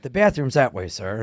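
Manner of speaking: slightly overplayed bit-part line; an eager actor's line reading; overdoing it a bit. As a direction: give the one line a little too much. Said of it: "you're doing a lot".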